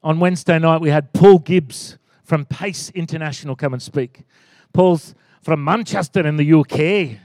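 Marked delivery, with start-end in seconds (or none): 4.7-7.2 lightly imitated Manchester accent; British accent. Pastor imitating a guest speaker from Manchester, mock British accent. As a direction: put on a touch of British accent. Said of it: "he's got a very strong British accent".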